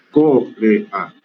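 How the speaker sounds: "Corea" stressed on the first syllable, CÓ-re-a; correct stress. Shown as a demonstration. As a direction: say "Corea" with the weight on CO, three syllables. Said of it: "no lleva acento en la O, se dice Corea".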